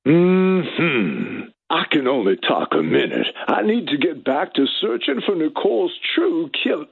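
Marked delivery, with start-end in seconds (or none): 1.7-6.9 quick deadpan O J impression; O J Simpson impression. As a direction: rush it, trying to stay straight-faced. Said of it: "I can't say it with a straight face".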